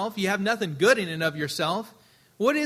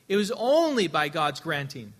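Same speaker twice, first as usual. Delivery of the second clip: ordinary talk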